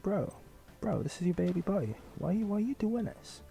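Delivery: high-pitched incredulous protest; mock disbelief. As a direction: plead with him, pitched right up. Acted protest to the drinking father.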